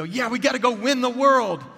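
high, loud mock rallying cry; a hyped-up churchgoer's yell, far above normal pitch; gung-ho cheer. Churchgoer fired up after a message, mock gung-ho.

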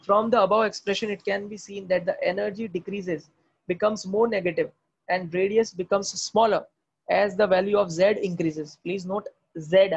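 very slow, word by word textbook reading; slow dictation read. Acted. Teacher reading the textbook slowly for students to write down. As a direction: spell the passage out slowly for notes.

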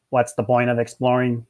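lightly voiced monotone alien; hint of a listless alien voice; bored alien. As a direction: drone it with no interest.

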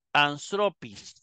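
anstropis said slowly, stressed on TRO; stress on penult. Shown as a demonstration. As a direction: move the accent to TRO in anstropis. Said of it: "el acento pasa de la tercera a la segunda". (anstropis despacio, con el acento en TRO)

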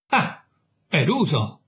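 slow, savouring each word with a smile; slow, smiling triumph; triumphant smile. Acted. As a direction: let the victory show as you echo it. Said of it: "dissi con un sorriso di trionfo".

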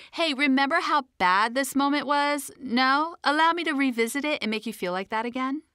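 mocking Hilda. Inner critic Hilda taunting.

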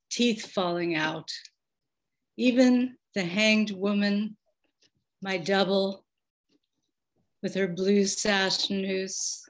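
measured, pausing poem recital; poem reading. Acted. Poet reading her insomnia poem to the audience, measured recital. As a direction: read each line with weight and space.

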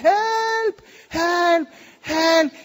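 shouting for help. Retold or imitated. Castaways on a raft shouting Help at a passing ship. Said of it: "empezamos a gritar en inglés".

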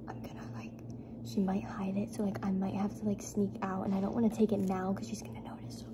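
low, hushed half-whisper; secretive. Real, not acted. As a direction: keep it down so parents won't hear. Plotting secretly to sneak out.

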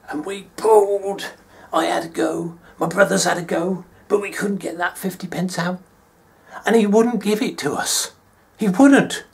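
loud, high, strained, building to indignant protest; worked-up retelling. Retold or imitated. Child denied the fifty pence by dad, worked-up protest.

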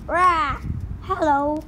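squawking parrot voice. Acted. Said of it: "Say hello, Polly".

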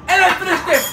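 laughing. Real, not acted. Laughing after winning.

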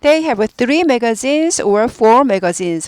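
very slow, every word clear; slow teacher demo; slow model sentence. Shown as a demonstration. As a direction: read it out slowly for students. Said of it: "원래는".

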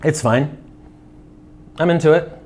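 cookie held at lips; mid-bite tasting remark; talking while chewing. Real, not acted. Seen 0: holds bitten cookie at lips, talking mid-taste, likely chewing.

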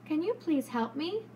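clear, polite, steady request; strong respectful voice. Shown as a demonstration. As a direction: ask politely and firmly. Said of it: "Or should she use a strong, respectful voice?".

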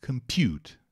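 Compute said without the -d, stress on pute; verb pronunciation. Shown as a demonstration. Teacher modelling the verb for the class, clearly.

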